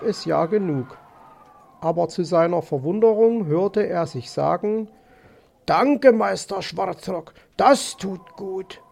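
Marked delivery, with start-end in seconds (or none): 5.7-8.8 slow, drawn-out fox politeness; lightly voiced polite fox. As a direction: voice a grateful fox, slowly. (leicht gespielter, höflicher Fuchs)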